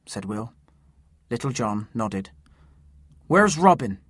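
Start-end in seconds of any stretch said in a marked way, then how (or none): 3.3-4.0 urgent. Acted. Asking urgently for Robin.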